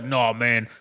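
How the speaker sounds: slow, lightly done Southern drawl; a hint of good old boy, laughing; Southern accent. Friend imitating Otis with a Southern accent. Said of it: "So he's like".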